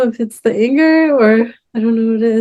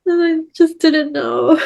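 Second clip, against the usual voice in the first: real sadness; 3 semitones higher than usual. Real, not acted. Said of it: "it's more sadness".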